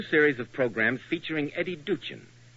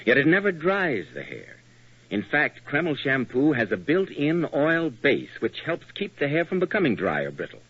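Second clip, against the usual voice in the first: radio ad read; 4 dB louder than usual. Acted. Announcer continues the shampoo ad.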